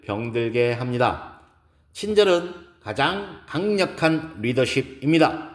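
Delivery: measured keynote speech with emphatic key words; lightly voiced speaker making each point to an audience; poised woman lecturer. Gives a lecture in story. (차분하고 힘 있는 강연 말투)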